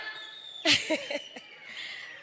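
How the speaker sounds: a light laugh, breath only; breathy laugh. Real, not acted. Daughter laughing after singing her father's song.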